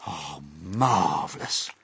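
talking while eating; mouth full. Acted. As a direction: say it between bites. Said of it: "stuffing it into his mouth".

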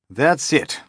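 high, loud sudden realisation; alarmed captain cries out. A narrator's reading. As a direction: snap to a conclusion in alarm. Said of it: "cried the captain".

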